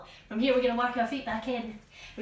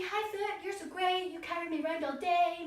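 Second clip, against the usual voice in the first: sweet talk to a foot; 6 semitones higher than usual. Pretend.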